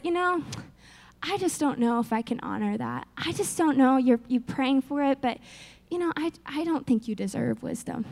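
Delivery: grudging God. Pretend. God voiced as withholding, hypothetical.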